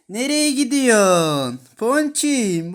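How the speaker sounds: high, loud coo at the kitten. Real, not acted. Talking sweetly to the kittens. (yavru kediye sevgiyle seslenme)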